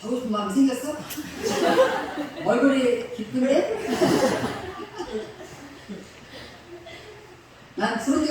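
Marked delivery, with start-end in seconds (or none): 1.0-2.4 laugh. Real, not acted. Teasing the daughter, laughing. 3.9-5.5 laugh. Real, not acted. Teasing continues with laughter.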